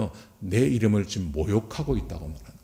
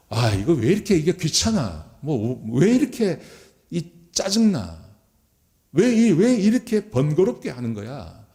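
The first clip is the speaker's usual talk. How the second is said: acted grumbling, pitched up and drawn out; scornful annoyance; 4 semitones higher than usual. Priests complaining about the offering ritual, mock irritated. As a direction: grumble as if fed up with the chore. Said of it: "코웃음을 치면서 제사장들이".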